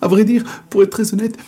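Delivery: timid confession. Acted. Man admits fear, higher fast.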